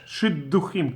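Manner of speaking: shidduchim with the d held as a double letter; doubled d. Shown as a demonstration. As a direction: stress the dagesh in "Shidduchim" with a strengthened d. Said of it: "Dalet is with a dagesh".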